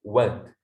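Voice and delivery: "what" with its a shaded towards e; "what" with a reduced a, leaning to e; corrected vowel. Shown as a demonstration. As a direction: say "what" between "wat" and "wet". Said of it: "Jadi A ke E".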